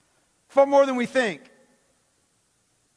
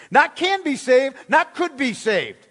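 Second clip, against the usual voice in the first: "can" and "could" punched as rejected words; stress on CAN and COULD; 3 semitones higher than usual. Real, not acted. Rejected words set against must.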